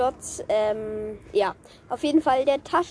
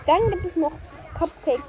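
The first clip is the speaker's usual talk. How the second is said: wind on mic; 3 semitones higher than usual. Real, not acted. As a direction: wind noise over the voice. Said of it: "Sorry für den Wind".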